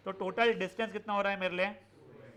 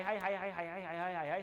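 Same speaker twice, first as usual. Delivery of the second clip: lingering hi in the ear; 2 semitones lower, 4 dB quieter than usual. Shown as a demonstration. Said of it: "हाय तुम्हारे कान में पूर्ण हाय".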